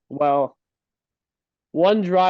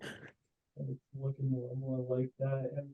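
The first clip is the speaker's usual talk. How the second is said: muffled, boomy bad mic; inside a fishbowl; 4 dB quieter than usual. Real, not acted. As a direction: voice through a bad microphone. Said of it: "Sound like you're an fishbowl there".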